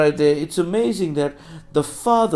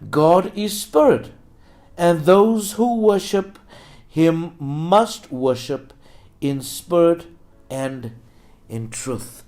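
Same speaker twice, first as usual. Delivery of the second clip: scripture reading; 3 semitones higher, 4 dB louder, slower than usual. Acted. Preacher resumes reading the verse to congregation, scripture reading. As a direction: read the verse with weighty pauses.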